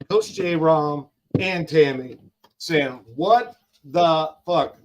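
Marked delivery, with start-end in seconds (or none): 3.2-4.8 all-caps yell. Retold or imitated. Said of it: "that was in caps".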